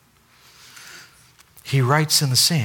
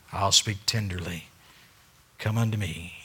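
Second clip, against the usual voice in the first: softer, lower, gentle; tender; 3 semitones lower, 5 dB quieter than usual. Acted. God to his people, tender. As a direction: say it gently, inviting.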